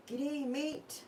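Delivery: "G'day, mate" with a high, rising lilt; read-out G'day. Shown as a demonstration. Crafting on a live stream, reading the sticker aloud with a high rise. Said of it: "When I read it like that".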